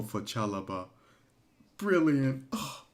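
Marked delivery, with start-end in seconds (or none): 1.8-2.8 a loud, higher burst of praise; real delighted shout; excited shout. Real, not acted. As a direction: cheer it out. Cheering the goal.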